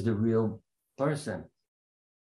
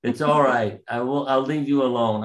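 loud, higher placating yell; 5 semitones higher, 5 dB louder than usual. Retold or imitated. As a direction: shout back to calm them down. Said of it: "I yelled".

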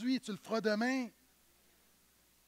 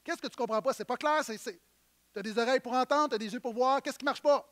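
exasperated parent. Retold or imitated. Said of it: "quand je parle à mes enfants".

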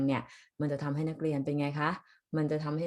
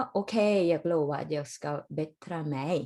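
jag ska bättra mig drawn out slowly, ending on a rise; slow demo; much slower than usual. Shown as a demonstration. Teacher repeating the clip slowly for the students. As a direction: lay each word out slowly for the class. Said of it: "ก็ใช้คำว่า bättra".

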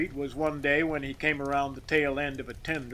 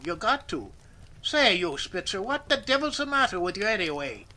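exasperated; 5 semitones higher than usual. A narrator's reading. Boss exasperated at worker.

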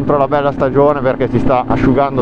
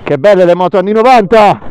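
excited; 5 semitones higher, 6 dB louder than usual. Real, not acted. Admiring the old bikes.

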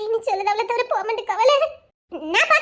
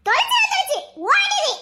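higher, laughing panic; giggling alarm; panicky laughing; 9 semitones higher than usual. Acted. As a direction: laugh while urging to run.

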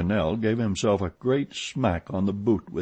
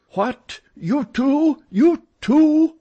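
very high, rising astonished cries; high-pitched amazed exclamation; startled outcry; 9 dB louder, much slower than usual. A narrator's reading. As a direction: blurt it in shock, louder each time. Startled manager jumps at ghost's mention.

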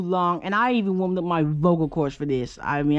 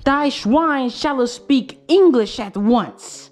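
mock decree; 5 semitones higher, much slower than usual.

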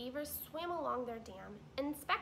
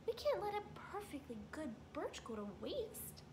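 higher, brisk wife beaver; wife beaver chiding husband; Missus Beaver; 6 semitones higher than usual. Acted. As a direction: scold lightly as the practical wife.

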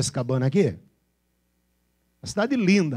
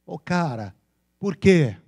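São Paulo slang delivered with punch; paulistano accent; 5 dB louder, slower than usual. Shown as a demonstration. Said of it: "Como é que o paulista fala?".

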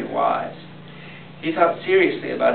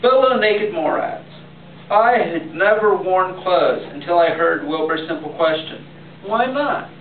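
proclaiming grandpa. Acted. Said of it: "and proclaimed".

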